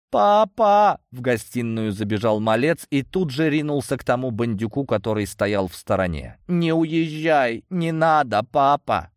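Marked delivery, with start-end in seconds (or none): 0.1-1.0 put-on high shouting little boy; loud high child's cry. A narrator's reading. Little boy cries for dad. 6.5-9.1 put-on high, slow begging little boy; pleading child. A narrator's reading.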